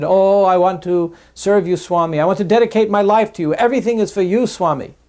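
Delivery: effusive, high and loud mock devotion; imitating an over-eager admirer's lavish pledge; gushing devotee. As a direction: gush it out grandly, drawing out the opening. Mimics gushing businessman pledging devotion.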